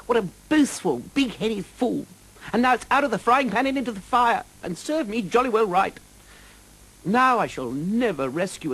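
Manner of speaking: high, rushed self-scolding knight; panicked knight. Acted. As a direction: berate yourself in rising panic.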